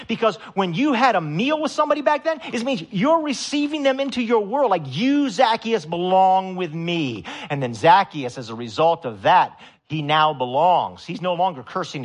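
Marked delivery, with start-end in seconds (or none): 4.8-7.2 tender welcome. Retold or imitated. Jesus welcoming Zacchaeus.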